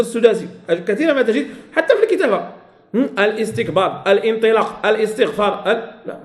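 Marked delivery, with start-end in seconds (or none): 3.2-5.7 "الاستكبار، الانطلاق، الاستغفار" each split after al by a glottal stop; hamza wrongly sounded. Shown as a demonstration. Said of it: "غلط، لا في الكتابة ولا في النطق". («الاستكبار، الانطلاق، الاستغفار» بقطع الهمزة: أَلْ إِستكبار، أَلْ إِنطلاق، أَلْ إِستغفار)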